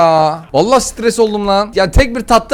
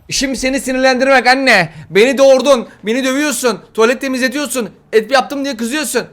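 put-on taunting kid voice; 6 semitones higher than usual. Voicing the kid taunting mother.

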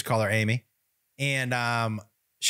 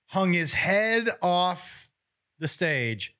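ordinary talk

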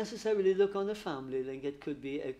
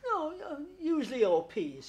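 laughing; 10 semitones higher, 4 dB louder than usual. Retold or imitated. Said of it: "She's laughing as she says it".

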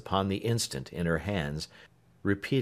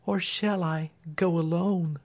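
resolute Marian; 10 semitones higher than usual. A narrator's reading. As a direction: insist gently but firmly. Marian asks.

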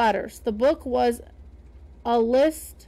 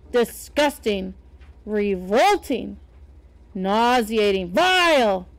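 rising louder with each word of disgust; disgusted tirade; 3 semitones lower, 3 dB louder than usual. Acted. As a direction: spit out each word harder. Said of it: "words flew through the air".

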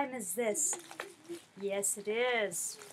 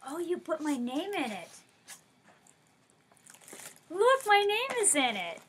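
louder, higher delighted call; excited; 5 semitones higher, 6 dB louder than usual. Real, not acted. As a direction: show off the name with glee. Finds her name in gift.

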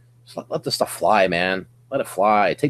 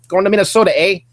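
put-on a playful Minnesota accent, higher and louder; mock Minnesota accent; 8 semitones higher, 6 dB louder, faster than usual. Joking about snowbirds heading home, mock Minnesota accent.

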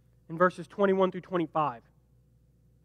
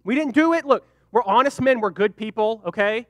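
begging for mercy; 5 dB louder than usual. Retold or imitated. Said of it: "they're begging for mercy".

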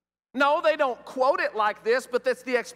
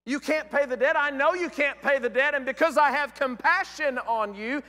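the king speaking; 5 semitones higher, 4 dB louder than usual. Acted. King voiced in parable.

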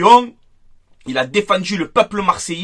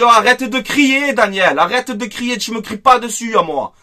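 retold yell back; 4 semitones higher, 3 dB louder than usual. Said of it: "Je lui ai dit".

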